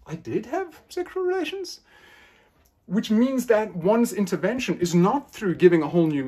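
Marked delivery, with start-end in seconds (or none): 0.1-1.8 dropped not. Shown as a demonstration. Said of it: "just drop the not".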